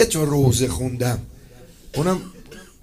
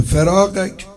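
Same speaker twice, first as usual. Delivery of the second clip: wailing lament; 3 semitones higher, 9 dB louder, much slower than usual. Retold or imitated. Quoting Zeinab's lament in Arabic.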